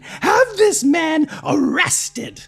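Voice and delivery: high, loud slow call for help. Acted. Lady calling for the man's arrest, slow loud shout. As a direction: shout it across the courtyard. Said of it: "attempts to call out to".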